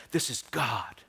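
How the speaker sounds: low, soft movie-trailer solemnity; lightly mock the grand film voice; Hollywood portrayal. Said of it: "Hollywood would portray this is like".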